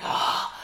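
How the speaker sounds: mock winded "oh" gasp; imitated hard breathing. Friend mimicking a man winded from the hill, hard breathing. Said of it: "he's, like, breathing hard".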